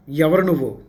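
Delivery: a touch of a scolding challenge; mild mock demanding. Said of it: "అని గట్టిగా దబాయిస్తూ అడిగింది".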